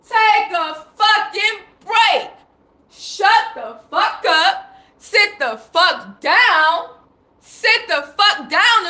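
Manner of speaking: slow, hammered-out command, each word spaced; fed-up scolding. Real, not acted. To listeners who aren't listening, a slow angry command. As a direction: lay down the law slowly.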